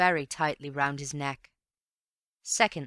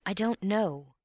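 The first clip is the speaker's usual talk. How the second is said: a slightly higher, sorry I don't know; lightly apologetic shrug of a reply; 4 semitones higher, slower than usual. Acted. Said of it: "said Antony apologetically".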